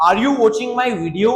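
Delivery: slow, careful question for learners; slow model question. Shown as a demonstration. Teacher modelling the question slowly. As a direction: stretch each word out. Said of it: "कैसे पूछेंगे?".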